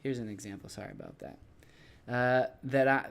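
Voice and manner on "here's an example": ordinary talk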